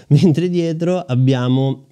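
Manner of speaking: laughing, short of breath; panting between words in the heat. Real, not acted. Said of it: "scusate il fiatone". (col fiatone)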